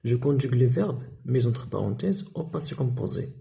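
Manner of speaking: reading the exercise heading slowly; slow dictation. Shown as a demonstration. Teacher slowly reads the exercise instruction aloud to pupils. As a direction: spell out each word for the class. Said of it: "ندوزو مثلًا".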